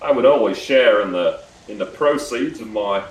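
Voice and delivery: put-on Australian accent. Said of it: "I'm doing Australian again".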